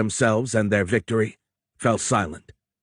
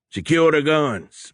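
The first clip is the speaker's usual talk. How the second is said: slow, loud command pitched higher; bawled order; 7 semitones higher, 4 dB louder, slower than usual. A narrator's reading. Moreau ordering the crew to secure the guns, bawling. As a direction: bawl it across the deck. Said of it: "Moreau bawled".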